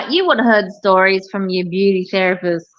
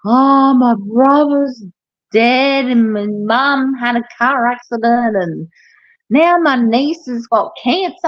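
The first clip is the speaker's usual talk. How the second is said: mock tearful client; 3 semitones higher than usual. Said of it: "then they're like".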